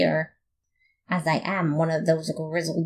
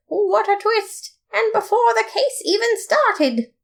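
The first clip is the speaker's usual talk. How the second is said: mock shock. Narrator shocked by twist.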